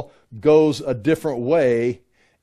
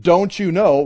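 exasperated Paul; 4 semitones higher, 4 dB louder than usual. Retold or imitated. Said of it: "And Paul say".

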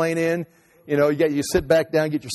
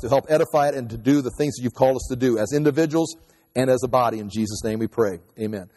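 spoken prayer to close the sermon; 2 semitones lower than usual. Acted. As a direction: pray for the congregation, fading at the amen. Closing prayer.

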